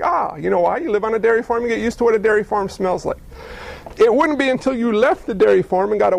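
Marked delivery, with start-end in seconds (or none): 0.0-0.4 content ah. Retold or imitated. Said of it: "You'd wake up and be like".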